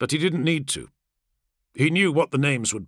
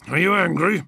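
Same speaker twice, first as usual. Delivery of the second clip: needling; 5 semitones higher, 4 dB louder than usual. Acted. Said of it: "Kargos needled him".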